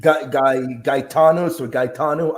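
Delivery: Gaetano said as "guy-TAH-no", hesitantly; alternative pronunciation. Shown as a demonstration. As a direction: feel out Gaetano with a hard g. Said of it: "I've even heard it".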